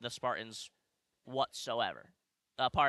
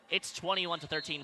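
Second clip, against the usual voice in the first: voice crack; 2 semitones higher than usual. Real, not acted. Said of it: "pardon the voice crack".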